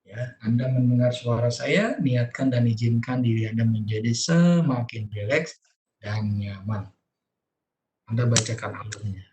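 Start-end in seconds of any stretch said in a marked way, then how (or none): 0.0-6.9 calm hypnotic read-aloud; soothing script reading. Shown as a demonstration. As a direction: lull the child toward sleep. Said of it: "Diawali dengan biasanya kalimat-kalimat positif".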